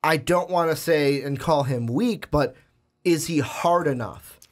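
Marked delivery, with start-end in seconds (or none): 3.0-4.4 hushed, breathy question; almost a whisper, musing. Real, not acted. Whispered doubt about casting.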